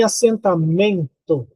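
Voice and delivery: "assentamento" slowed, with a drawn-out "men"; measured demo of "assenta-MEN-to"; stress on MEN. Shown as a demonstration. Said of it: "a mais forte vai ser nem".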